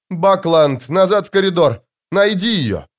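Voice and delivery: lieutenant sending her sergeant back, shouting; shouted order. Acted. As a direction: bark the order down the corridor. Lieutenant orders sergeant amid battle.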